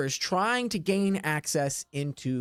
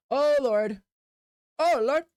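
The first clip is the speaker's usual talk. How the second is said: mock dismay; 9 semitones higher, slower than usual. Real, not acted. Repeats exclamation in mock dismay.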